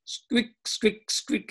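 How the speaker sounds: squirrel squeaks. Retold or imitated. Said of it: "they giggle and say to each other".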